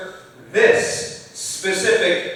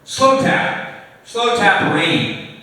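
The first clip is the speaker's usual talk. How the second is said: slow tapping delivery; 4 semitones higher, 7 dB louder, much slower than usual. Shown as a demonstration. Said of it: "it's a slow, slow tap".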